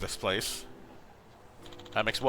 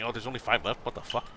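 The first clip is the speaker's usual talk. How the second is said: usual speaking voice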